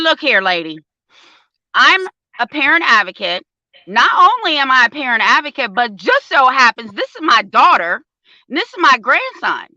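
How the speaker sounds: firm, emphatic lecture; stern telling-off. Retold or imitated. Grandmother lecturing the CPS worker, firm and emphatic. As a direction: put the lady in her place. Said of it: "telling off CPS worker".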